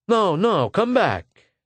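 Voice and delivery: urgent, high-pitched call; calling back. A narrator's reading. Personnel man stopping a departing applicant, calling him back urgently.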